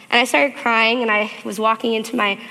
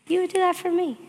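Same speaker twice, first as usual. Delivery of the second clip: much higher, stunned repeat; higher, wondering second take; amazed question; 9 semitones higher than usual. Retold or imitated. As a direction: repeat it in disbelief, pitch leaping up. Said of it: "He said".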